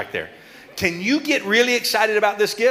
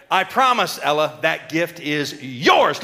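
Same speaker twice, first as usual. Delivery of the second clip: slow solemn promise; 3 semitones lower, slower than usual. Acted. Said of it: "When I say".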